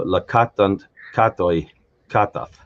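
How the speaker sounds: "katant", "katoi", "katath", each stressed on KAT, ending de-emphasized; stem-final stress. Shown as a demonstration. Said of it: "last syllable in the word stem is emphasized".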